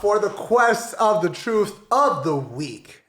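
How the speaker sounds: drawn-out host announcement; show announcer. Acted. Host announces the question segment.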